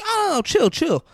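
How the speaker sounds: calming voice. Retold or imitated. Retelling Pulp Fiction scene.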